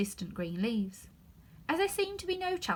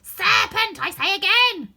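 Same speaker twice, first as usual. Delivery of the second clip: much higher, louder cry; shouting pigeon; 11 semitones higher, 14 dB louder, slower than usual. Acted. Pigeon repeating its accusation, loud. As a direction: hammer the word home. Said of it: "repeated the pigeon".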